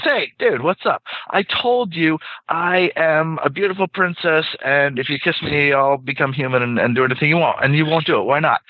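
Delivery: high and baffled, asking why; exasperated frog. Acted. Frustrated frog questions the guy, high pleading voice. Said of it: "the frog says".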